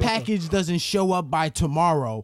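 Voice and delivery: lightly voiced offended customer; mock offended customer. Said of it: "may be like".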